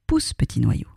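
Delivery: hopeful little wish; making a wish. Acted. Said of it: "en faisant un vœu".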